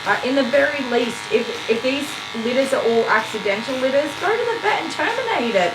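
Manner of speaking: venting hard at careless breeders; worked up. Real, not acted. Ranting to viewers about accidental litters, worked up. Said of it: "Sorry, I got worked up again".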